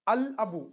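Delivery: "al abu" with an audible l; lam pronounced. Shown as a demonstration. Teacher repeats the moon letter example, "al abu" with l sounded. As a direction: keep the l in "al abu". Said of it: "will be pronounced".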